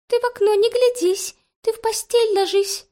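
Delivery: very high, sing-song chirping bird voice; little bird. A narrator's reading. Small grey bird warning the girl at the window, sing-song. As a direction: chant it like a tiny bird.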